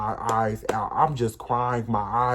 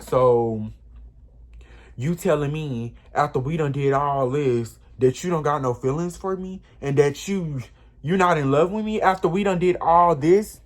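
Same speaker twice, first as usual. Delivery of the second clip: heated confrontation; 2 semitones higher, 3 dB louder than usual. Retold or imitated. Confronting him at 3 AM.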